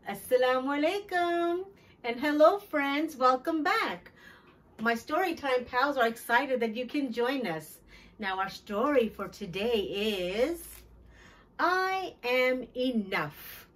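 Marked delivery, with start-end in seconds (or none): 0.1-7.8 put-on high, fast, eager hello to the children; bright greeting. Children's host greets her young viewers, high and fast. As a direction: greet the kids like a cheery show host. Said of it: "host greeting children".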